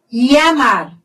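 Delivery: "Llamar" with ll said as a y sound. Shown as a demonstration. Teacher showing Spanish ieísmo to students, ll as y. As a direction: say "Llamar" as "yamar". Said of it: "vou pronunciar como I".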